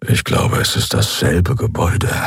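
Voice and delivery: hushed prisoner murmuring to the next cell; low murmur. Acted. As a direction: keep it under your breath, for the cellmate only. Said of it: "brummte Keru leise".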